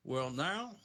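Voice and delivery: tentative drawled TV-doctor impression; lightly voiced TV doctor; Doctor Phil. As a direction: try out a TV therapist's drawl. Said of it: "what's your best Doctor Phil?".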